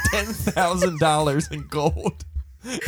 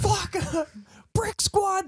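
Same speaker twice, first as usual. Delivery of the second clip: rapper ad-lib; much slower than usual. Retold or imitated. Shouting a rapper's ad-libs.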